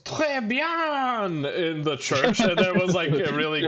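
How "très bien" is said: put-on high, airy French-accented quote. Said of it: "the guy goes".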